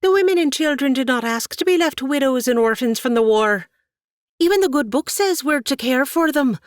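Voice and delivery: high, loud, building to a cracking cry; rising impassioned plea. Acted. Katie pleads for the widows to her aunt, building loud. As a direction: climb with every line until the voice breaks. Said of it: "increasing in volume as she spoke".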